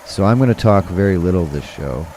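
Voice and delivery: hoarse, worn-out voice; losing voice. Real, not acted. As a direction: talk with a voice nearly gone. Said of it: "I am clearly losing my voice".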